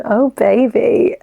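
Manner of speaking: slow, hammed-up mock moan; fake moan. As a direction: drag out a teasing fake moan, slowly. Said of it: "so I fake moan".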